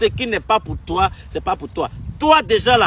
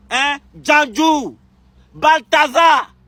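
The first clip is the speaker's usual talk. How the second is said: called out name; 3 semitones higher, much slower than usual. Real, not acted. Angrily calling out a name.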